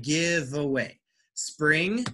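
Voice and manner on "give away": "give away" said as one linked unit, v running into the a. Shown as a demonstration. Teacher showing how "give away" really sounds, linked. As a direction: blend "give away" together like a native. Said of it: "this is not the spelling, but it sounds like".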